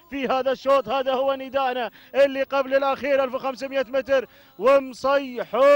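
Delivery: fervent race call with repeated cries; live play-by-play. Real, not acted. Commentator following camels to the finish, energetic play-by-play. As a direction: keep the race call rolling.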